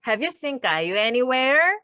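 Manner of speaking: "Have you seen 까유 anywhere" again very slowly, rising; slow drill for learners; slow repeat. Shown as a demonstration. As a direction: lead the repetition calmly. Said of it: "한 번 더요".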